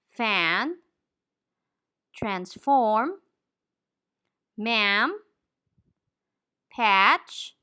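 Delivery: each word said slowly and clearly with the a of "cat"; demo word list. Shown as a demonstration. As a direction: lay out each word with a wide, open a. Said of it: "words containing the vowel sound a".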